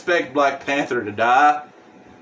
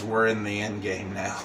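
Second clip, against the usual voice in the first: Black Panther quote; 5 semitones lower, 8 dB quieter than usual. Retold or imitated. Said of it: "he literally says".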